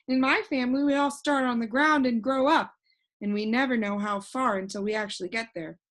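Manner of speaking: put-on a cheerful know-it-all boy floating in the air; voiced boy Alec. Alec explains his family.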